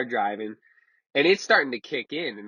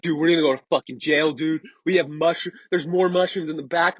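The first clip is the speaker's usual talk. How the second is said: retold panic, raised and urgent; freaking out; 4 semitones higher, 4 dB louder than usual. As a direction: imitate a friend losing it over jail. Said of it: "freaking the fuck out".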